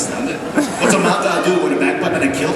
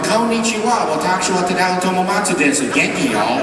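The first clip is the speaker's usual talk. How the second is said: Texan Japanese; 3 semitones higher than usual. Retold or imitated. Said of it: "So I'd be going".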